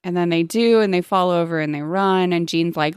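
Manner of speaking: ordinary talk, nothing marked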